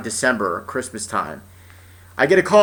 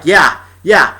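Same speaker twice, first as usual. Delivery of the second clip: high, hammed-up school staff confession; mocking imagined staff voice; mock honest school; 5 semitones higher than usual. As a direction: play the school admitting it sucks, higher. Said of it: "you're just like".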